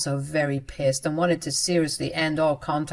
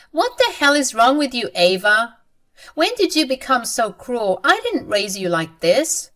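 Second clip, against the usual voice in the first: a higher, dismayed mother scolding; lightly voiced mom, hurt and disbelieving; shocked mother; 6 semitones higher, 3 dB louder than usual. Mother scolds her cruel daughter, shocked and hurt.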